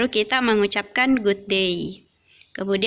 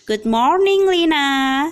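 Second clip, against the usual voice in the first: lightly voiced boy; 5 semitones higher, 5 dB louder, slower than usual. Benny greets Lina in dialogue.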